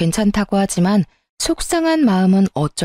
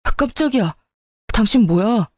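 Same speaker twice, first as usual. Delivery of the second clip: startled husband; 2 semitones higher than usual. Acted. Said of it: "비명을 질렀어요".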